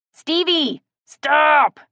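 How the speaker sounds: loud sharp command; ordering. A narrator's reading. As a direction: shout the order upward. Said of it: "Kellen ordered".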